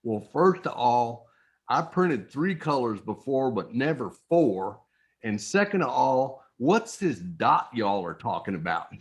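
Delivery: imitated Texas good old boy; lightly put-on Southern accent, playing a Texan heckler; a hint of a Texas accent on a retold question. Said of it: "in his very best Southern accent, his very best te-, Texas accent".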